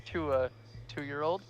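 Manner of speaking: mock proud claim. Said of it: "it's like".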